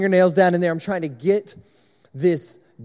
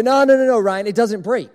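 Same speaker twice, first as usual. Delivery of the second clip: louder, higher run of quick no's; dismissive reassurance; 3 semitones higher, 5 dB louder than usual. Retold or imitated. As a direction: brush off the worry, acted out. Acting out others' confident reassurance.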